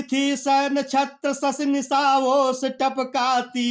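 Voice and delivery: slow, sung-out poem line; slow chanted poetry reading; verse recitation. Acted.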